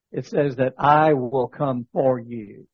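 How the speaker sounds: I will come for you, with the weight on I; stress on I. Real, not acted. Reading John fourteen to a dying friend, stressing I. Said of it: "because you put the emphasis on it".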